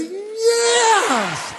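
the better take, a soaring yes; big joyful shout. Real, not acted. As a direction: shout it out with everything. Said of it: "Ready? one more time".

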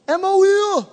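EMOIA pitched high and held level; high-pitched attempt. Real, not acted. Preacher trying Tom's Greek word, high-pitched. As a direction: sing out Emoia well above normal pitch.

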